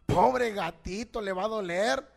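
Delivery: a hint of a tender woman sparing her pet; woman pitying her cat. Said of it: "La mujer dijo". (mujer compasiva, voz levemente actuada y más grave)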